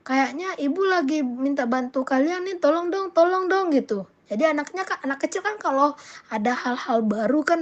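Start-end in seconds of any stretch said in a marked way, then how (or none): 0.1-3.7 higher, coaxing appeal for help; higher-pitched mother's plea; acted pleading request. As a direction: coax the children into helping. Mother asks children for help.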